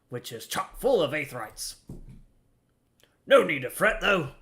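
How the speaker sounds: a lightly voiced gruff old deckhand, chatty; grizzled sailor voice. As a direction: read it as a weathered old seaman, barely shifted. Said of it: "Stay with the grizzled voice".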